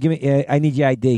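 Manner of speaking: normal talking voice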